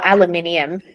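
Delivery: aluminium with five syllables, al-yoo-MIN-ee-um; Australian aluminium. Shown as a demonstration. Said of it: "answering the word game".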